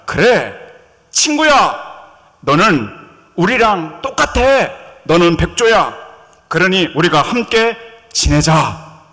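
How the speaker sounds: loud, slowed, embracing welcome; warm welcome. Acted. Swan welcomes the duckling as a friend, loud and embracing. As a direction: welcome him into the flock with open arms.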